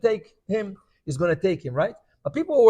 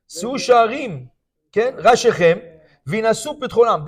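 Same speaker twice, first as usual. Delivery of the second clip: Solomon's plea at the gates; 3 semitones higher, 5 dB louder than usual. Retold or imitated. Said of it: "He says over here".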